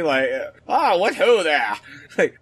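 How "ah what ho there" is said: lightly put-on British accent, jovial greeting; a hint of a hearty British gent calling out. Co-host pretends an old British club member greets him, light British accent. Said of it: "I'm trying to do a "Hey you" down there in a British accent".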